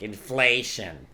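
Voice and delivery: slow, loud, drawn-out mocking of a slogan; mock Republican talking point. Mocking Republicans on TV, slow and loud. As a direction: sneer the word like a campaign chant. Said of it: "the Republicans are always talking about that".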